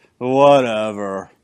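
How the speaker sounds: imitated, mock-drunk slurring voice. Retelling how a woman answered being charged with theft, imitating a drunken voice. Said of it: "in a drunken voice".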